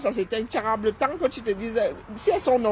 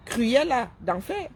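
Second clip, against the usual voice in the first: very slow, drawn-out mock villain name; mocking drawl; much slower than usual. Branding a rival influencer a villain, slow mocking drawl. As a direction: stretch out Cruella d'enfer slowly, savouring the insult.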